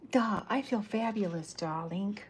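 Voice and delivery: mock glamorous darling voice; hammy diva. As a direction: purr it like a glamorous villainess showing off. Cece voiced in comic reading.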